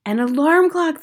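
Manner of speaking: high-pitched amazed echo; crying out. Acted. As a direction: exclaim as an impressed crowd of witches. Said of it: "they cried out".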